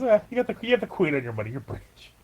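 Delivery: a hint of smug House jabbing at Chase; sarcastic House impression. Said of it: "He goes".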